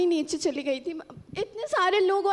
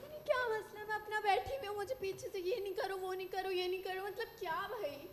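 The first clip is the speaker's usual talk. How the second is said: tearful complaint; 13 dB quieter than usual. Real, not acted. Upset contestant complains softly.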